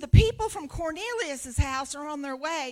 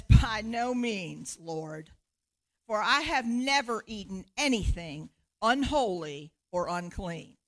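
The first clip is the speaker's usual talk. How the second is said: Peter refusing; 2 semitones lower, 4 dB louder than usual. Acted. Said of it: "he says".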